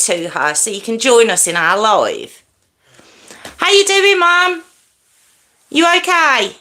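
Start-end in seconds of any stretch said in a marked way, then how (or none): 3.6-6.6 loud greeting. Real, not acted. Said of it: "I don't know why I'm shouting".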